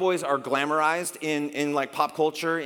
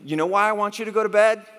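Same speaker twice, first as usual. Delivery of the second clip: stern father; 6 semitones higher, 6 dB louder, faster than usual. Retold or imitated. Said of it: "finally I'm like".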